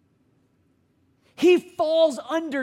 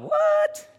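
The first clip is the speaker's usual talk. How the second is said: much higher, squeaky mock surprise; audience's shocked what. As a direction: play the baffled listener. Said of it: "some of you are going".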